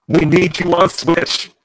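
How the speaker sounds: slow robotic plea; drawn-out robot voice. Real, not acted. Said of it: "with your robot voice right now".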